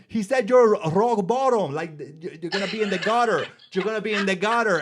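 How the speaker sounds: mock alarmed mom. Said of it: "She was like".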